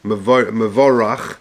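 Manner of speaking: "Mevorach" very slowly, a kamatz "o" under the bet; careful pronunciation. Shown as a demonstration. Teacher spelling out a Kaddish word, syllable by syllable. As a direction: stretch out "Mevorach" as "me-VO-rach", every sound clear. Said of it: "Bekomatz Tachas Abayitz".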